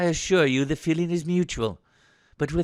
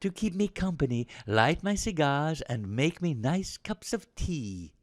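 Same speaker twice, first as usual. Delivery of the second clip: sarcastic. Acted. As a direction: lay on the lordly sarcasm. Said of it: "Rudge fails to grasp the sarcasm".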